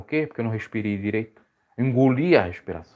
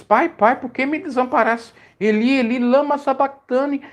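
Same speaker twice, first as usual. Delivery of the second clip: higher, louder cry of anguish to the Father; Jesus crying out; 14 semitones higher, 4 dB louder than usual. Retold or imitated. Preacher voicing Jesus on the cross, a raised anguished cry. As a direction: call out to the Father like an abandoned man. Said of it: "Jesus disse".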